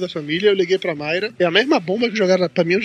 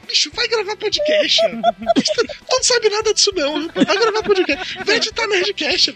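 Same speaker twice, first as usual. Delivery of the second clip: mocking inner voice; 12 semitones higher than usual. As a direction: sneer it up high like a smug heckler in your head. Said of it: "a voz da gente fala".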